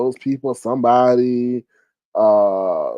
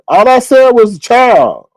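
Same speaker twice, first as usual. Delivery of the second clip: indignant protest; 8 semitones higher, 9 dB louder, slower than usual. Real, not acted. Defending herself to chat.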